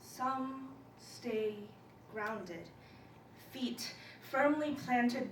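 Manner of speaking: measured poetry recital with dramatic pauses; spoken-word poem. Acted. Student presenting a poem on crash landing, spoken-word recital. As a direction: recite it in deliberate phrases, swelling as it builds.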